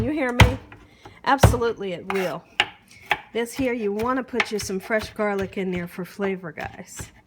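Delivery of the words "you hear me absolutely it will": louder, punchy call to the viewers; loud hype. Real, not acted. Cook calling out to her viewers, loud and hyped. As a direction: pump up the audience at home.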